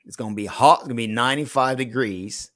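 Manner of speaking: playful mock southern accent on a Texas forecast. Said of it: "Is that your southern accent?".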